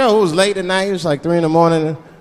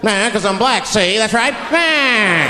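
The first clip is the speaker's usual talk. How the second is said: put-on higher, cocky old-movie tough guy; crazy forties gangster talk; 4 semitones higher, much slower than usual. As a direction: talk crazy to rattle the cop. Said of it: "I'll talk crazy".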